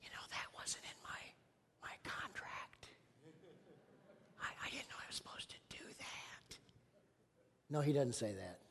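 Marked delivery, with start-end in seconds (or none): 0.0-6.6 whispering the intern's grumble under his breath; hushed, sulky whisper of a reluctant intern; whispered mock complaint. Preacher mocking intern Jake's complaint in a whisper. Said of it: "he said".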